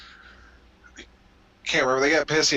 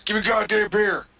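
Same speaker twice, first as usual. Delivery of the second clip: higher, rough-edged redneck bluster; mock redneck wrestler; 6 semitones higher than usual. Mocking a wrestler on TV, redneck bluster. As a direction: ham up a beer-swilling brawler. Voicing a wrestler mid-match.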